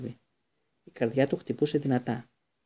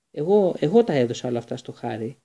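louder, stammering, breathless; out of breath; 6 dB louder than usual. Acted. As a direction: burst in gasping after running. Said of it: "είπε λαχανιασμένος".

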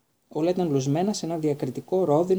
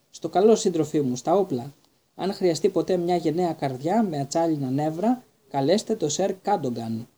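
gallant farewell. Acted. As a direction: puff up like a brave knight. Knight's grand parting speech.

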